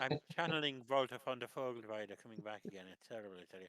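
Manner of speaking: put-on thick German accent. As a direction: speak with a heavy German accent. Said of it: "I can't drop it now".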